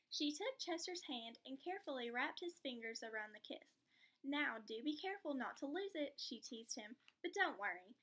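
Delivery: lively storybook read-aloud; reading to children. Acted. Teacher reading to a child, lively storybook voice. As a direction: bring the picture book to life for the class.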